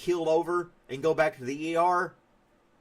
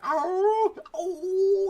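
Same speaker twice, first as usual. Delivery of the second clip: much higher, louder cries of the pepper eater; high mock pepper guy; 5 dB louder than usual. Imitating the chili guy's burning cries for chat, high and loud. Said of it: "He's like".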